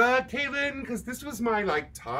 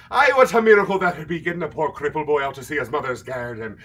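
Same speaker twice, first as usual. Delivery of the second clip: quick, lightly put-on Scottish accent for "Aye"; Scottish character voice; 5 semitones lower, much faster than usual. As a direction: quote the Secret Garden line in a hammed-up Scottish brogue. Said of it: "I just say everything like that character".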